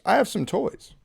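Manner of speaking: mock a creepy suitor's message; creepy texter. Reading out creepy man's texts.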